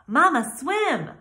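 put-on high, slow childlike call; a little gosling calling out. A narrator's reading. Gosling calls to mother.

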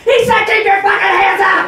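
high, loud armed command; wife as robber. Pretend. Comedian voicing his wife threatening bank customers. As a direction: snap the order like a robber. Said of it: "be like".

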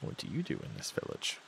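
hushed, breathless ask; whispered question. Acted. Player whispering a question to the villager. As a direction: lean in and whisper it.

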